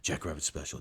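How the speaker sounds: hushed, awed schoolyard whisper; low, breath-only murmur. Retold or imitated. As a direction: pass it on like a secret, very softly. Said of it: "almost in low whispers".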